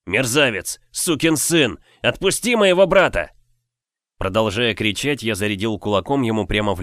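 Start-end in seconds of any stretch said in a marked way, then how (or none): 0.1-3.3 loud furious yell, pitch well up. Acted. Younger brother yells at the brute to release his brother, furious shout. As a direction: scream it at the giant to let go. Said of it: "заорал я".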